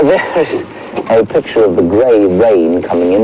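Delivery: ordinary delivery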